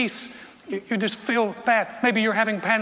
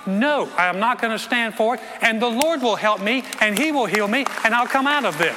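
louder, stubborn resolve; defiant; 3 semitones higher, 3 dB louder than usual. Retold or imitated. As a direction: refuse it out loud, firmly. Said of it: "you gotta get defiant".

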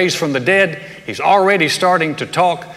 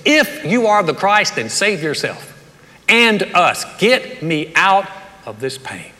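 retold bitter outburst, heavy and drawn out; the thief's hard, demanding taunt, acted out; hardened lashing out; 3 semitones higher, slower than usual. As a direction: lash out slowly, stressing each demand. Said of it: "hardness in him as he lashes out".

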